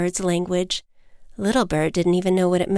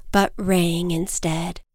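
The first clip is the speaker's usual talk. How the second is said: usual speaking voice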